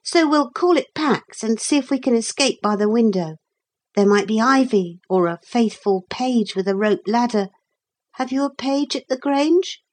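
lightly played boy thinking aloud; hint of a boy plotting an escape; lightly voiced boy. Narrator voices boy Philip planning.

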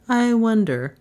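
lightly voiced musing man; musing Trent. Driver echoing his passenger, lightly musing.

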